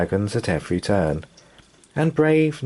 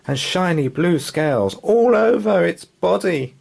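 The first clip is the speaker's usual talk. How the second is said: breathless awe at the monster; breathless dad; 8 semitones higher than usual. Acted. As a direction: still catching his breath. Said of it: "he panted".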